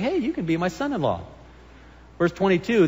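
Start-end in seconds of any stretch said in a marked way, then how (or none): 0.0-1.2 softer, casual, falsely friendly hey; fake friendly offer. Pastor voicing Saul's fake friendly offer to David, softly. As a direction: sweet-talk him like nothing happened. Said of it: "and now he's saying".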